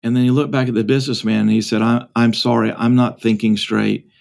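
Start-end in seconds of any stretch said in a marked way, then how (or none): 1.8-4.1 low, subdued retold apology; lightly voiced father, foggy and sorry; dazed apology. Father looking back at the businessman to apologize, dazed and low. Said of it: "as if emerging from a fog, and, like, waking up".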